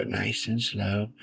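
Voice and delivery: soft, slow soothing painter voice, lightly put on; Bob Ross. Gamer mimics a TV painter while drawing a road, soft slow impersonation. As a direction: take it slow and softly, like a TV painter. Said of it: "trying to do my Bob Ross impersonation".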